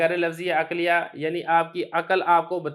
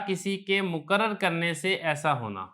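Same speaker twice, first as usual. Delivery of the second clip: each word of the definition read slowly; slow, deliberate reading of the book's line; quoting the text aloud, slowed down. Shown as a demonstration. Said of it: "تو عبارت آپ دیکھ لیں".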